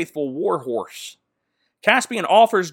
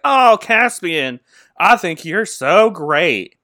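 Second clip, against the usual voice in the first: swooning; 4 dB louder, slower than usual. Retold or imitated. Susan swooning over Caspian.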